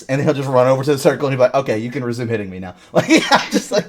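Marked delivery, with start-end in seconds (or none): 1.5-3.9 laughing. Retold or imitated. Imitating friend, laughing through it.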